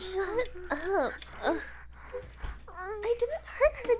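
usual speaking voice

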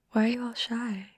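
usual speaking voice

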